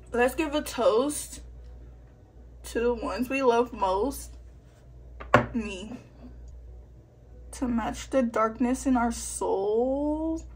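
slow, solemn mock toast; mock dramatic toast. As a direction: raise a glass with fake gravity.

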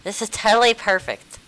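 put-on high, loud valley girl squeal; white girl voice. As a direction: gush like a cheerleader. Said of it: "Why do you sound like a white girl?".

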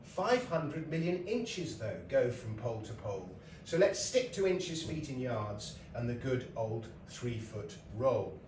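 recited verse. Shown as a demonstration. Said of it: "he wrote this piece of verse".

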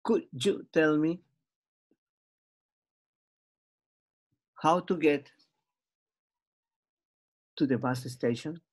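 放慢，一段一段停顿着说; 慢慢示范，每块之间留停顿; slow model phrase. Shown as a demonstration. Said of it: "dilo de nuevo".

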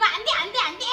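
mock refusal of a greedy kid; greedy child. Greedy child fighting over things, acted-out stubborn protest. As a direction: protest repeatedly like a selfish child. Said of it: "욕심 부리고".

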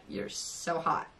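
whispered, slow and soft; half-whispered to the guitarist, starstruck; breathy confession. Retold or imitated. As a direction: let it slip out in a hush. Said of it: "And I just went".

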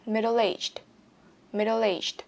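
"Middle aged" run together, L flowing into the A; linked sounds. Shown as a demonstration. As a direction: link the L of "Middle" onto "aged". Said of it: "Nối âm".

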